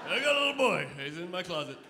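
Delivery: hammed-up creepy "I got a little boy"; creepy kidnapper. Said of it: "it sounded like I s-, stole him".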